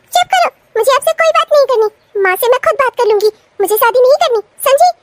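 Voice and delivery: high-pitched opening, indignant; angry rebuff. Acted. Sister-in-law refuses marriage talk with bhabhi, angry rebuff. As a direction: shut her up and refuse firmly.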